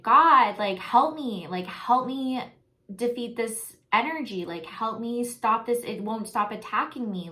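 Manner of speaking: retold scream for help. Dreamer begging God to stop the attacking entity, retold scream.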